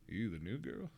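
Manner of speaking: put-on deep southern accent. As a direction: play a hushed southern country boy. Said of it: "in a deep southern accent".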